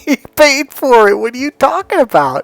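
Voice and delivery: high, loud disbelieving protest; incredulous. Retold or imitated. Man challenging the woman's claim on the home, incredulous. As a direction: retell an astonished objection. Retold incredulous reply to her.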